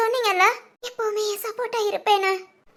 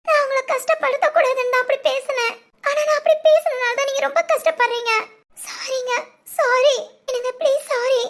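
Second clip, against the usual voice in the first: pleading apology; 4 semitones higher than usual. Acted. Wife begs her husband to forgive her, high and pleading.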